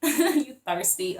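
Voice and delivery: drawn-out mock American accent; playful American accent. Tarot reader joking over her borrowed slang, playful American accent. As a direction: put on an American accent for a joke. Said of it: "I put American accents on everything".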